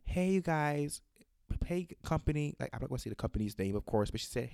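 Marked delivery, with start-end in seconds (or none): 0.0-2.5 lightly imitated sweet caller, raised pitch; mock-nice greeting, voice lifted a little; sweetly polite. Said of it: "very nicely and very sweetly".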